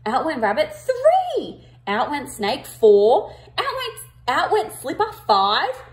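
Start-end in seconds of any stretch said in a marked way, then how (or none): 0.7-1.7 cross. Acted. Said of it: "he said crossly". 2.6-3.3 cross. Acted. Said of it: "he said crossly". 5.3-5.8 cross. Acted. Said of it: "he said crossly".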